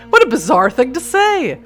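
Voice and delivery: laugh, then exclaim in real bafflement; incredulous, tickled outburst. Real, not acted. Laughing at the odd line.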